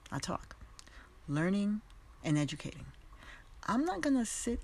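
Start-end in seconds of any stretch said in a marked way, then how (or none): 0.1-0.6 whispered aside. Real, not acted. Quiet aside after a point.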